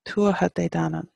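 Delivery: "Tuatha de danann" joined up, weight on "Tuatha"; stress on TUATHA. Shown as a demonstration. Teacher repeating the phrase for learners, stress on "Tuatha". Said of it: "the emphasis here is on the tuatha".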